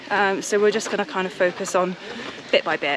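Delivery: breathless, puffing between words; out of breath. Real, not acted. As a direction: talk while short of breath on a climb. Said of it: "She's out of breath already".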